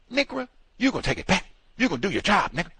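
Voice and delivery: high, fast mock rant at the driver; angry customer. Imitating an irate customer yelling at the driver. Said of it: "Chris Rock you so bad".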